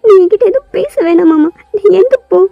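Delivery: a touch of tearful anger; hurt and angry. Acted. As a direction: push him away with hurt pride. Girl denies crying, sends him off.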